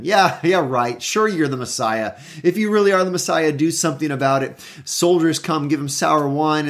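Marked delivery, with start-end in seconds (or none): 0.0-4.6 sarcastic jeer, fast on the if line; mocking. Religious leaders gloating at Jesus, sarcastic mocking jeer. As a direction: scoff like a smug gloating leader. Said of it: "They're mocking him".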